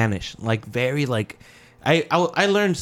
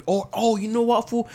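higher, excited coworker voice; 7 semitones higher than usual. Retold or imitated. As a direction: hype up the new guy like a buddy. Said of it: "He's like".

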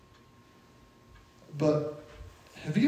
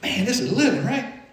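laughing friend; 9 semitones higher than usual. Retold or imitated. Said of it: "They go".

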